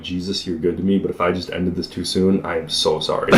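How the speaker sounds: understated apologetic prayer; retold prayer. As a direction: pray humbly under your breath. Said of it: "I'm praying to the Lord".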